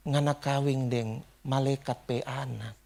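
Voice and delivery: slow Manado speech, imitating an old man; Manado dialect. Manado grandfather to the groom, slow imitated Manado dialect. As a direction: mimic a Manado elder, word by word. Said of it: "karena dia orang Manado tuh".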